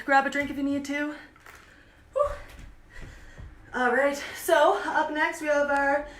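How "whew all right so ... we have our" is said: panting after a workout; out of breath. Real, not acted. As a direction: talk through heavy breathing. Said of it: "I'm kind of out of breath right now".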